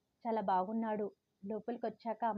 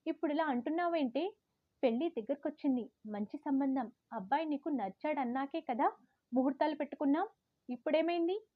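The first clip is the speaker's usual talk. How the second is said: higher, indignant angry questions; angry mother; 4 semitones higher than usual. Retold or imitated. Mother angry at daughter refusing the wedding. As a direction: demand an answer, annoyed. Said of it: "కోపంగా అంది".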